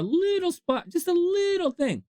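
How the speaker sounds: very high, squeaky "little"; playful high-pitched minimizing; mock-tiny voice. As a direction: pitch "little" way up as if it's teeny. Mimes a tiny splash of pity.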